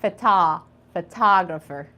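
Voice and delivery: phota- then photographer, stress on tah; modelling in parts. Shown as a demonstration. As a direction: split then join photographer. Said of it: "teacher models word in parts".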